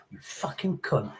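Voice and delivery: slow, low, menacing curse; aggressive swearing. Shown as a demonstration. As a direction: draw it out quietly with menace. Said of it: "the tone of your voice".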